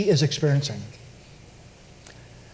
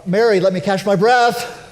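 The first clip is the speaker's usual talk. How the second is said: slow, tender and reassuring; slow, tender words to Mary while she still holds him; gentle reassurance; slower than usual. Retold or imitated. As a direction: soothe her gently as she clings on. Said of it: "it comes to the point where Jesus".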